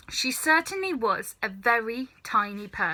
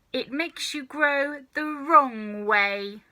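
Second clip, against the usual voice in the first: snapping; 5 semitones higher, 4 dB louder, slower than usual. Acted. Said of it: "she snapped".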